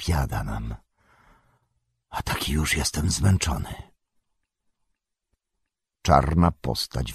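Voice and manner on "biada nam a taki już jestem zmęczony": low, soft, tired lament; Gandalf's weary murmur. A narrator's reading. Exhausted wizard leaning on his staff, weary murmur. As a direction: sigh it out low and spent. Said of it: "mruknął Gandalf".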